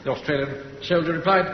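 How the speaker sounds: normal talking voice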